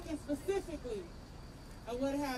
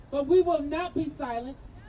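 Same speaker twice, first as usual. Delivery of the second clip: rousing rally cry; 4 dB louder than usual. Real, not acted. Rally speaker rousing the crowd.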